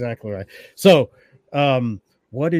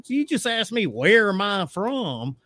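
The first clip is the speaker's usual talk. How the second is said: incredulous; 7 semitones higher, slower than usual. Retold or imitated. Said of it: "And I'm like".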